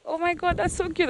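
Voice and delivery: high, soft gushing over something cute; breathless high-pitched delight; excited gush. Retold or imitated. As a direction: gush like a moved customer seeing the result. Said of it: "And she was like".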